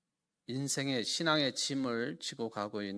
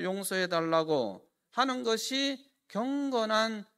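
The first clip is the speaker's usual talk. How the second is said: louder, higher preaching; 8 semitones higher, 7 dB louder than usual. Acted. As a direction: drive the point home to the congregation. Preaching at full force. (힘있게 외치는 설교)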